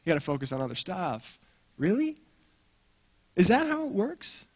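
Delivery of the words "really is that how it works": incredulous. Real, not acted. Incredulous preacher challenge.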